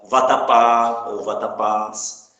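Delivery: VATAPÁ and VATAPÁS drawn out on the last syllable; final stress. Shown as a demonstration. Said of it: "A gente acentua por conta disso". (vatapá ou vatapás devagar, com a última sílaba forte)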